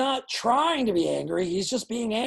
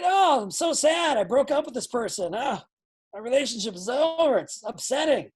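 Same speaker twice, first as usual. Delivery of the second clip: mock sad; 2 semitones higher than usual. Shown as a demonstration. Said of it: "I cried".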